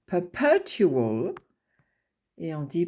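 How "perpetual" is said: Perpetual whispered slowly, each syllable drawn out; whispered word-stress demo; whispered stress model. Shown as a demonstration. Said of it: "Le mieux, c'est d'enregistrer la musique du mot".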